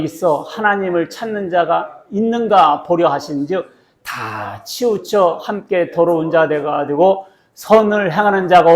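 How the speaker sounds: slow, emphatic verse reading; deliberate recitation with stretched words; scripture read-aloud. Acted.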